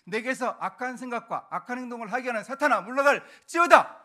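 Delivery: rebuking prayer building to a loud shout; forceful exorcism prayer, swelling at the end; commanding prayer. Shown as a demonstration. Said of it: "이런 긴 기도를 줄인 게".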